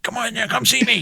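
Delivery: high creepy singsong invitation; creepy lure. Retold or imitated. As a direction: coax her out like a spooky actor. Scaring girl at window.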